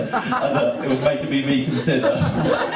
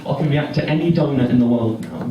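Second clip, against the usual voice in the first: ordinary delivery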